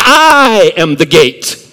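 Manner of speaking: strong, forceful, weighty, emphatic delivery. Paraphrasing what a quoted saying really means, with strong forceful emphasis. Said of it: "it's a very emphatic statement".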